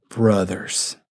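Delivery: low, soft brotherly appeal; tender address. Retold or imitated. Paul addressing the council, soft and brotherly. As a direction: speak to them as family, gently. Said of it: "that's how he addresses them".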